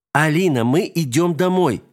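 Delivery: чуть громче, строго и медленно; строго позови дочь; строгий окрик. A narrator's reading. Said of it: "строго крикнула". (Вика строго окликает дочку)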